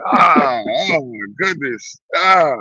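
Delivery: slow, shouted oh my goodness through a laugh; real laughing exclamation. Real, not acted. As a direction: let the disbelief spill out. Reacting to avocado on bacon.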